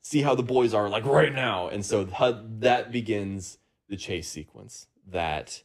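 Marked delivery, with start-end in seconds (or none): 0.0-1.7 mildly panicked mom, pitched higher; freaking-out mom. Acted. Mom urging everyone home to check on the boys, mock freaking out. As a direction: act a mother in a mild fluster. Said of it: "starts freaking out and is like".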